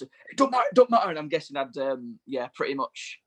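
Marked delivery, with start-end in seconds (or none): 0.0-1.1 quoting Rob. Retold or imitated. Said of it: "he went".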